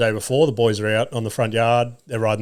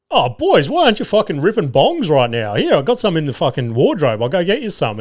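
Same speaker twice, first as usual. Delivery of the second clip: higher-pitched take on an over-keen dad; mock chummy dad; 4 semitones higher, 3 dB louder than usual. Mate's dad walks in on the boys, hammed-up chummy. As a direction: imitate a dad eagerly joining in with the boys.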